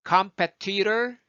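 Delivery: crisp aspirated Ts in competitor; full T sound. Shown as a demonstration. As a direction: release each T in competitor. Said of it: "컴페티터가 말이 훨씬 편해요".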